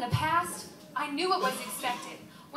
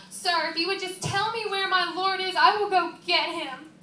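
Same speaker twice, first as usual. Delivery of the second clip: higher, urgent plea; acted pleading; 4 semitones higher than usual. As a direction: beg a stranger for help finding him. Pleads with supposed gardener.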